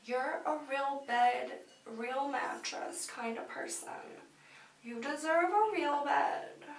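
measured meditation guide with long pauses; guided meditation. Pretend. Telling listeners they deserve a real bed, measured meditation voice. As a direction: guide them back in, phrase by phrase.

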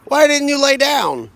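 real amused laugh in the question. Real, not acted. Dad laughing as he asks the dog.

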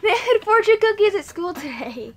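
laughing through the words. Real, not acted. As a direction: laugh as you explain. Laughing while explaining.

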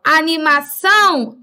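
"Animação" with ÇÃO held long; stress on last syllable. Shown as a demonstration. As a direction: punch and stretch the final -ção of "Animação". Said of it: "é a última".

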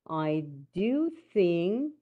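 slow reading with weight on "do"; emphatic DO. Shown as a demonstration. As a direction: draw out "do" in "I do think". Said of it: "طبعًا emphatic".

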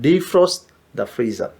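very slow, soft and careful; slow model phrase. Shown as a demonstration. Teacher drilling the phrase slowly for students. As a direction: drag each word out for learners. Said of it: "defrost എന്നാണ് പറഞ്ഞത്".

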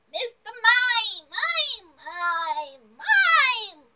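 drawn-out, swooping cartoon-style cry; impression. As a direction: call the name in a silly put-on voice, rising and falling. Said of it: "impressions? 'Cause I can do 'em".

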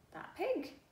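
high fearful that pig; alarmed dog. Acted. Dog warns the boy about the pig, high and scared. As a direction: point back in alarm.

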